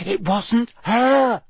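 high, slow, lightly voiced girl; Hermione. A narrator's reading. Hermione defends the elf before ministry wizards, nervous determination. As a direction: speak up nervously but determined. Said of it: "She looked very nervous".

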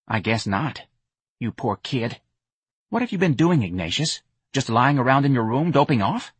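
a hint of a worried young woman; lightly voiced Myrna, concerned. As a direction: say it with mild dismay. Myrna pities Ignatius.

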